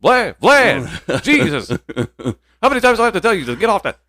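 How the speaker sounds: high shouting scolding dad; angry father yell. Pretend. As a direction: yell at the kid to stop. Acting Vlad's father scolding.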